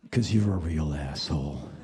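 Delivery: very low, barked mock insult; low gruff imitated bandmate; deep blunt bandmate. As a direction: drop way down and bark it. Bandmate's blunt reply voiced.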